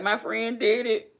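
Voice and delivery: high, slow, half-laughing mock sob; "did it" stretched high, laughing through mock tears; retold crying. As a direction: replay the happy tears, drawn out and high. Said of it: "I'm sitting there crying like".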